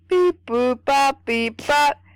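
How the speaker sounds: robot beeps. Pretend. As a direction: beep like a robot. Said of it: "I sound like a robot".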